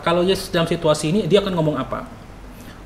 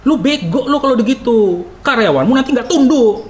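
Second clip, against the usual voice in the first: higher-pitched acted scolding; scolding boss; 6 semitones higher, 3 dB louder than usual. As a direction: lay down the law like a boss. (bos memarahi bawahan)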